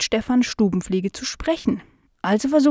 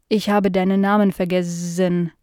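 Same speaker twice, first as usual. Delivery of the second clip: forgetful housefly. Acted. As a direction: confess vaguely, drawing the words out. Fly character speaking.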